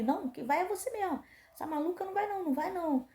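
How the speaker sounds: hammed-up guard snapping back; mock angry refusal about the mother; annoyed guard. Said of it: "começou a brigar comigo".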